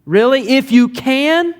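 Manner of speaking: high-pitched mock disbelief, rising at the end; incredulous sarcasm. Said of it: "It's almost a bit sarcastic".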